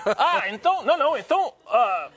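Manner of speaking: put-on high, playful Brazilian Portuguese accent. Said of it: "estás a ficar com um bom sotaque brasileiro".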